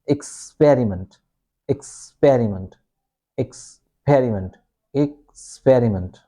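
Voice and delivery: "experiment" broken as ex... PER-iment; stressed second syllable. Shown as a demonstration. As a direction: stretch the PER in "experiment" after a small gap. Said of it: "you say it loudly and you say it slowly".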